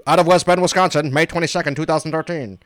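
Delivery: reading the release in a formal announcer voice; a mock-official read of the press release. Shown as a demonstration. Host reading the station's press release on air, in mock-official tones. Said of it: "Here's the official, you know, air quotes".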